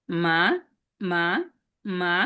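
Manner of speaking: মা rising; second tone. Shown as a demonstration. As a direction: lift মা upward. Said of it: "আমার সাথে বলেন". (মা উঠতি সুরে)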